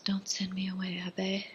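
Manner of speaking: soft, hushed plea in imitation; retold whisper. Woman pleading with the abbe not to send her away, whispered. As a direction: whisper it lightly, as if quoting her. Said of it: "she whispers".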